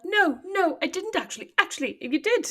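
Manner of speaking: high-pitched mocking imitation of denial; mimicked protest. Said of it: "You're like".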